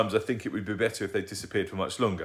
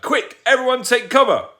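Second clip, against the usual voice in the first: yelled; 13 dB louder than usual. Acted. Dad yelling a fake Martian alarm at the banging door. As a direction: bellow a joking alarm. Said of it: "yelled Dad".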